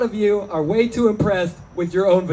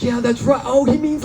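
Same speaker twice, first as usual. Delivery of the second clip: high, dopey stoner realization; stoned audience member; 8 semitones higher than usual. Retold or imitated. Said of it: "It's like".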